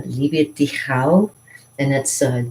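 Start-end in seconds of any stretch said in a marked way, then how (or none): 0.0-1.3 liebe dich auch, said slowly, rising on auch; slow careful German; German phrase. Shown as a demonstration. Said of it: "another one you should learn is".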